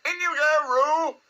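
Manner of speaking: high, loud Rabbit command. A narrator's reading. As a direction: call it out high and urgent. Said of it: "Rabbit said in a loud voice".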